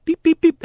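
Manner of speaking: high mimicked dial tone beeps; host imitating the phone ringing, high beeps.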